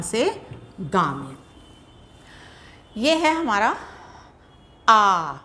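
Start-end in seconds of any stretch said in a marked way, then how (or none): 4.9-5.3 आ held long, an open drawn-out aa. Shown as a demonstration. Teacher showing students the long vowel, held aa. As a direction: stretch the vowel आ out. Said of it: "इसका उच्चारण देर तक होता है".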